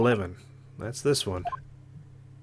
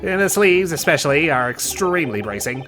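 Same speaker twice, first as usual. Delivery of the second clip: put-on an excitable professor with a weak German accent; Harebrain German accent. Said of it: "I can't do a German accent".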